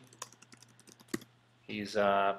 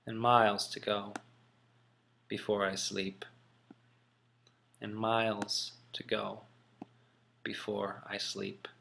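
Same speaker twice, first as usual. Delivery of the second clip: gloomy; 2 semitones lower, 3 dB quieter than usual. Shown as a demonstration. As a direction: let the last lines sink into gloom. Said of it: "I tried to sound gloomy".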